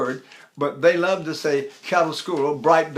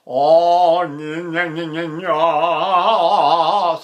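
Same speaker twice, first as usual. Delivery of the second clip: throaty nya exercise; 5 dB louder, much slower than usual. Shown as a demonstration. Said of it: "activity going in my throat".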